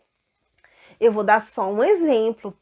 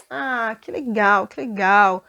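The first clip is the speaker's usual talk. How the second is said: happy servant; 4 dB louder than usual. Acted. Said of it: "saiu todo contente".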